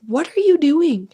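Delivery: mock cop shout; cop's shout. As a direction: demand it like a cop pulling someone back. Cop yelling at her at the scene.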